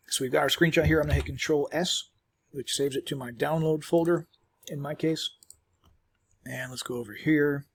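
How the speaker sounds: chewing while talking; mouth full. Real, not acted. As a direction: talk around a chewy bite. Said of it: "chewing on a calcium chew".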